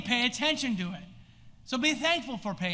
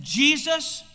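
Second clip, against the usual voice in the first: lifted-up voices; 4 semitones higher, 5 dB louder than usual. Acted. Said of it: "lifted up their voices".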